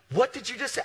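high, loud indignant challenge; outraged retort. Retold or imitated. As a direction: mimic a customer who can't believe the insult. Acted quarrel, angry customer retorts.

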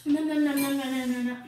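rapid loud protest; urgent no. Real, not acted. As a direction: stop her, urgently. Stopping mom loudly.

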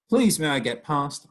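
high, pleading little voice; begging. Acted. Child begging the snake to let her pass. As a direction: beg the snake to let you by. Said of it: "I begged".

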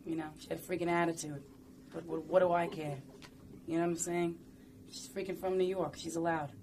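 friend's mother from Queens, with attitude; Queens accent. Retold or imitated. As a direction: do a brash Queens, New York accent. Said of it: "My friend's mother from Queens".

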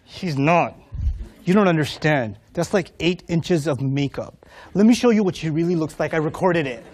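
low, grudging mock denial; jealous sibling. Voices jealous sibling disputing praise.

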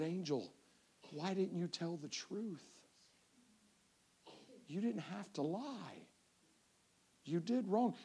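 soft, slow fatherly disappointment; gentle reproach. Retold or imitated. Dad to daughter caught lying, gentle reproach. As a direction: quietly confront a child who lied.

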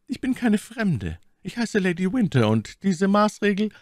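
hoch und langsam, stolz; stolze Mylady. A narrator's reading. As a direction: als stolze Lady, höher und langsam. Voiced Milady. (Mylady besteht gegenüber dem Offizier auf ihrem Namen, langsam und hoch)

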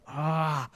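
soft, breathy groan of dismay; dismayed sigh. Retold or imitated. Teller reacting to friend's plan, dismayed sigh. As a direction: let out a quiet, exasperated "ah".

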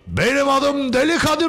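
high, swaggering tough-guy intro; Deli Kadir persona. Pretend. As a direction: announce yourself like a crazy thug. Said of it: "Tribe girdim iyice". (yüksek sesle kabadayı tavrıyla tanıtma)

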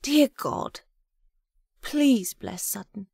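high, pleading prayer in character; fervent, pleading Agatha. A narrator's reading. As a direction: plead earnestly with God on his behalf. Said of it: "her voice was fervent and pleading".

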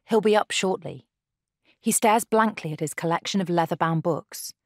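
measured storyteller over music; dramatic narration. A narrator's reading. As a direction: tell it like an audio drama.

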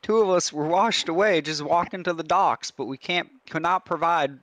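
lightly put-on Southern fisherman accent. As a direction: plead for help in a mild Southern voice. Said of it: "I'm fitting the Southern stereotype".

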